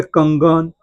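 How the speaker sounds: कंगन with an ng sound in the middle; anusvara as ng. Shown as a demonstration. Teacher repeating the example, कंगन with ng. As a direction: sound the dot in कंगन as ng before ग. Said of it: "अंग हो गया".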